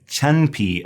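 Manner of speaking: CHEN with an "uh" vowel; tangerine peel pronunciation. Shown as a demonstration. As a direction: demonstrate "chen pi", e said as uh. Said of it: "the E has an uh sound".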